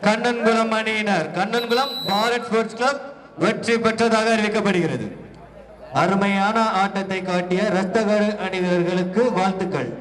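steady public address announcement; announcer. Acted. Announcer declaring the winning team to the crowd. Announces match result at venue.

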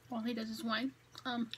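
talking while licking fingers; words between finger licks. Real, not acted. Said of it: "sorry for the finger licking".

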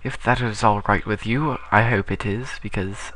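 mock posh British accent; lightly put-on British accent. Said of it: "I shall talk in a British accent".

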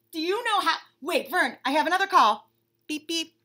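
high, excited chatter, tripping over words; gossiping bunny on phone. Acted. Bunny chatting eagerly with Vern on the phone, high. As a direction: gush to a friend.

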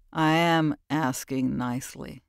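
low, slow, dangerously polite; the stranger warning her, low and slow. Acted. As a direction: menace wrapped in courtesy. Man voiced low.

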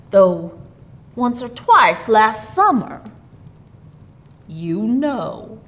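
hearty, slow old gift-bringer, mildly put on; a hint of jolly Santa, easing off at the end; lightly voiced Santa. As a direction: reckon it up slowly for a child. Voices Santa reassuring Billy.

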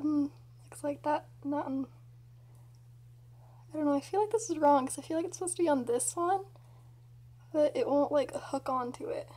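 lips pulled aside by fingers; talking with stretched mouth. Real, not acted. Seen 1: Fingers hook inside lips, pulling cheeks while talking about braces.

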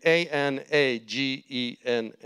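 ordinary delivery

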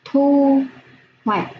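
clear, deliberate reading of thu hoạch; careful teacher reading of thu hoạch; model reading. Shown as a demonstration. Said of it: "Cô đọc".

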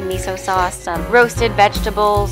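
ordinary talk

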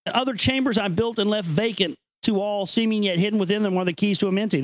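measured, grave reading of an ancient text; solemn recitation. Acted. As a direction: read it like sacred scripture, unhurried. Rereads passage.

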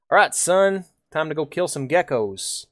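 cowboy voice. Pretend. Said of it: "I will be doing the cowboy voice for fun".

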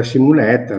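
Simonetta said as simunɛta, U sound and open E; Milanese Simonetta. Shown as a demonstration. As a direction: give Simonetta the Milanese vowels. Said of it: "in milanese si dice Simonetta". (Simonetta alla milanese, simunɛta)

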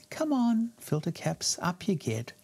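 high-starting, playful gentle wake-up; gentle coaxing. Acted. Tech gently rouses sleepy filter capacitors, playful gentle coaxing. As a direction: coax them up, starting high and easing down. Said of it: "gentle wake-up voltage".

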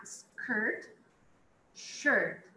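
Skirt and shirt said side by side to contrast the vowel; contrast pronunciation. Shown as a demonstration. Teacher contrasts skirt and shirt for students. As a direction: set skirt against shirt clearly. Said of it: "Atenção com a pronúncia do i".

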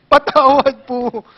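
mock child asking sorry; child begging forgiveness. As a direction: beg like a crying little kid. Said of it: "yung bata".

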